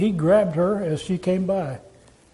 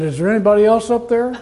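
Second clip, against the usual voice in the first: higher, quick punchline question; mock doubtful calling; 4 semitones higher, faster than usual. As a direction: call upward, hoping for another answer. Climber's punchline, seeking another rescuer.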